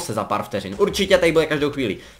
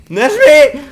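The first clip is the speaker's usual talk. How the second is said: shouting at himself; 12 semitones higher, 11 dB louder than usual. Real, not acted. Gamer yells at himself, louder with a laugh. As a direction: tell yourself off, still laughing. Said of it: "to druhé na mě".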